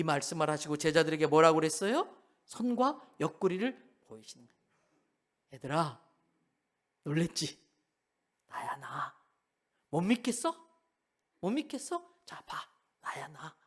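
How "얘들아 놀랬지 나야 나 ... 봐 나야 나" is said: gentle reassurance. Acted. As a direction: hush them tenderly, see it's me. Risen Jesus gently reassures disciples.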